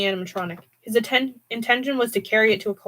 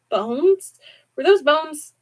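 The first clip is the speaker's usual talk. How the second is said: alarmed; 7 semitones higher, 5 dB louder, slower than usual. Acted. Hudson alarmed by what he sees.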